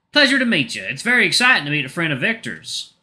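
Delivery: high, sweet southern tiger; southern accent. Shown as a demonstration. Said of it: "I'm just gonna make him southern".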